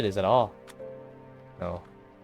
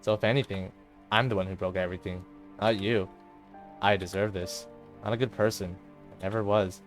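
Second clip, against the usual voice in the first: low, soft, dejected confession; quiet self-blame; 3 semitones lower, 5 dB quieter than usual. Acted. Monika blames herself to her best friend, quiet dejection. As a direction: confess it low and softly, defeated.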